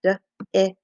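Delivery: "D-, i-, s" as three separate short sounds; tapped-out sounds. Shown as a demonstration. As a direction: sound out dis one phoneme at a time. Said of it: "You could tap it out".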